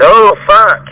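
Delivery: mock the lazy worker's fretting; a hammed-up imitation of a flustered employee; whiny employee mockery. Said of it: "And not".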